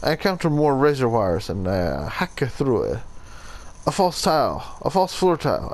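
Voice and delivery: hammy Italian narrator, sounding half Russian; attempted Italian accent. Shown as a demonstration. Player voicing an explorer among deadly traps, attempted Italian accent. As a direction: read the tale in a put-on Italian accent. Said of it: "I'm trying to do an Italian accent".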